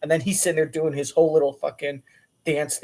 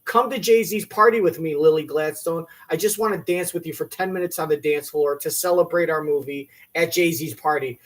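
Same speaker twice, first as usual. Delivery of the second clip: mock begging. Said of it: "Leonardo DiCaprio is begging you".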